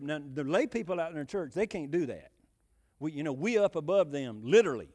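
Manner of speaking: mock-superior young minister, rising in volume; lightly voiced smug preacher boy; smug superiority. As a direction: imitate a self-important seminary grad looking down on the laity. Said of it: "And he said".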